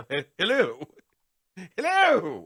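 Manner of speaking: a hint of a tough guy at the door; menacing dockworker greeting. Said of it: "show up and say".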